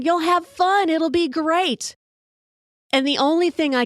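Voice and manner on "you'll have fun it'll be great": high, slow, sing-song encouragement; mock-chirpy staff coaxing a scared rider; cheery park employees. Park staff cheering her onto the coaster, high and sing-song.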